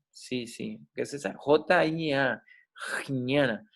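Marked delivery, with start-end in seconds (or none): 3.1-3.7 jñana said as a careful Sanskrit word; Sanskrit pronunciation. Shown as a demonstration. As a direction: sound out "jñana" for learners. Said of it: "dificultad para pronunciarlo".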